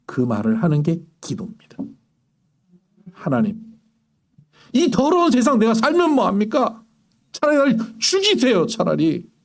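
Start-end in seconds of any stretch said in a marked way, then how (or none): 3.1-9.3 pleading cry, rising high on the plea to die; despairing prayer. Retold or imitated. Preacher voicing a desperate believer crying out to God, anguished plea. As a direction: beg God in anguish, voice climbing. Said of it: "이런 이야기를 하나님 앞에 하는 게 기도라고요".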